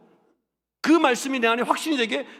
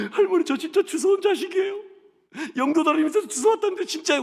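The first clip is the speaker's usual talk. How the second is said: put-on high, louder, half-sobbing child's voice; upset child's plea; 8 semitones higher, 4 dB louder than usual. Boy tells grandma he was adopted, high and upset. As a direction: blurt it out like a hurt little boy.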